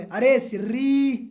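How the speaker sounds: slow drawn-out yell of "अरे सिर्री"; hammed-up angry shout at the partner; mock angry shout. Student yells at partner who kicked curd, slow mock shout. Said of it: "चिल्ला के बोले".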